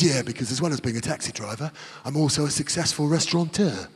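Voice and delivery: Cockney cabbie bragging to his fare; Cockney cabbie boasting. Retold or imitated. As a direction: puff himself up quietly as a cabbie. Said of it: "Proper Cockney".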